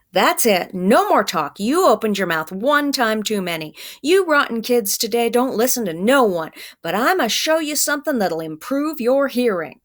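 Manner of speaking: mildly voiced threat from a bully; threatening man. Man with strap threatens the boy, mild mock menace.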